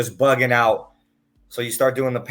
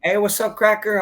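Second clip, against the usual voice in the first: higher-pitched mock girl's greeting; teasing Cracker greeting; 11 semitones higher, 5 dB louder than usual. Friend Daniela greets him in a higher teasing voice. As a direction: tease him in a higher girlish voice. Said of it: "she used to call me Cracker".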